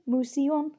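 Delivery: museon said as Greek; Greek word. Shown as a demonstration. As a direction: say museon carefully.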